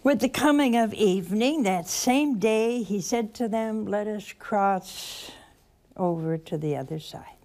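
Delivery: slow, savoring each phrase; slow reflective reading. Shown as a demonstration. Preacher showing the congregation a slow prayerful reading. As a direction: read it slowly, letting each word land. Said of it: "And slowly".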